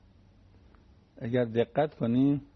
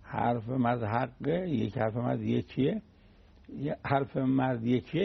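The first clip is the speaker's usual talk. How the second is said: slow, measured saying; slow, deliberate contrast; slower than usual. Shown as a demonstration. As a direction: set out each saying slowly. Spells out two competing sayings. (شمرده و آهسته)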